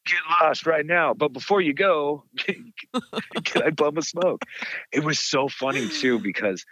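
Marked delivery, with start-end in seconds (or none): 0.1-4.4 mock ghost. Mocking ghost voice, laughing.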